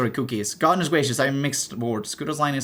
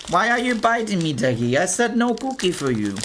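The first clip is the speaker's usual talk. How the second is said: scolding pet; 6 semitones higher than usual. Real, not acted. Scolding pet Deggy biting.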